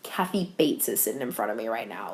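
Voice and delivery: low, very soft starstruck aside; retold private, hushed amazement; hushed awe. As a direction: drop to a near-murmur, as if thinking it privately. Retold awed inner thought at cast.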